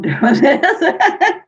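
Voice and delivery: amused, laughing at oneself; breaking into laughter. Real, not acted. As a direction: laugh through the last words. Laughs at own slow writing.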